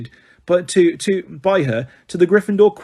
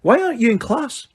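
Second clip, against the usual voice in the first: brisk, higher, stern McGonagall; snapped; 9 semitones higher than usual. A narrator's reading. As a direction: snap at the student. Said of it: "she snapped".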